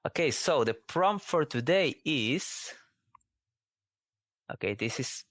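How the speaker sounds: slow playful whisper. Pretend. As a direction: whisper it like a secret reveal. Suspense before revealing game prompt.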